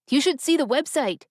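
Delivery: high, swooping burst of excitement; excited whoop. A narrator's reading. Younger brother banging through the door, whooping. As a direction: burst in with big news, pitch leaping. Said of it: "he said with a whoop".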